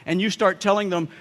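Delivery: usual speaking voice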